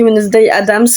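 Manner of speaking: "Wednesday Adams" said with a French speaker's English accent; a French vlogger's self-conscious English accent on "Wednesday Adams". Real, not acted. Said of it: "Je suis désolée pour mon accent anglais".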